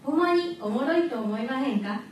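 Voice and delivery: lightly put-on Osaka dialect. Shown as a demonstration. Student asking the audience, playful Osaka dialect. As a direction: ask it with an Osaka lilt. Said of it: "皆さんは大阪弁をどう思いますか".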